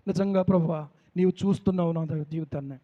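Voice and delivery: low, soft, intimate address to God; hushed prayer. Retold or imitated. Preacher telling the Lord he sees his life, hushed prayer. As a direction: drop into a quiet confiding prayer.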